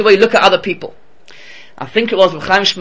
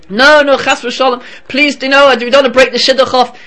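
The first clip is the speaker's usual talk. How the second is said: desperate pleading; 8 semitones higher, 4 dB louder than usual. Acted. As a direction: plead not to break the match. Girls beg her not to tell.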